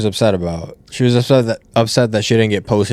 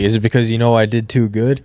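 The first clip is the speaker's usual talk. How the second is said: lightly sarcastic imitated quote; mock an innocent question, then a little laugh; put-on, mildly sarcastic asking. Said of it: "like, sarcastically saying".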